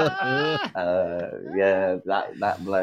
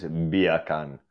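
Jamaican-style accent on "beer can"; short mock Jamaican accent; reggae voice; 5 semitones lower than usual. Shown as a demonstration. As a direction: say it in a laid-back reggae accent. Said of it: "a reggae voice".

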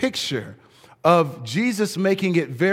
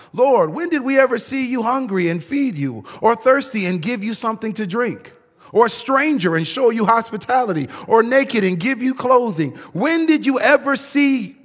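higher, puzzled and protesting; surprised righteous ones; 5 semitones higher than usual. Acted. Righteous ones asking the king when, higher and amazed. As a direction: ask it in honest amazement. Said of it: "these righteous ones will reply".

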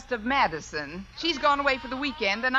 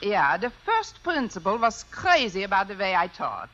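put-on German accent. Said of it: "If I can do a decent German accent".

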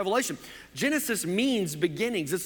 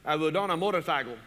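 lightly voiced Cajun Boudreaux; horrible Cajun accent. Boudreaux answers Saint Peter at the gates, bad Cajun accent. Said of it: "my Cajun accent is horrible".

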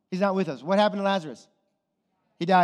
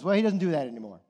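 lower, dropped-off mock dismissal; dismissive answer; 4 semitones lower, much faster than usual. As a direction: brush the question off as that church would. Acted dismissive church answer.

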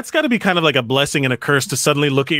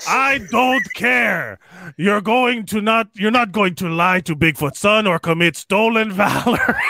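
shouting Bigfoot; 4 semitones higher than usual. Pretend. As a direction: bellow it as an outraged Bigfoot. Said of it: "To which Bigfoot said".

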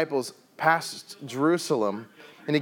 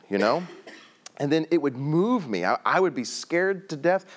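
usual speaking voice

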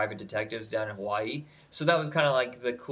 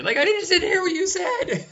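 laughing; 6 dB louder than usual. Pretend. Mock RoboCop, laughing.

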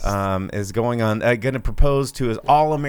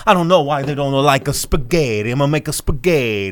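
loud, high mock Italian accent; hammed-up Italian papa ranting; Robert De Niro; 5 semitones higher, 6 dB louder than usual. Host parodying the trailer's Italian father, mock Italian accent. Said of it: "Robert De Niro's running around going".

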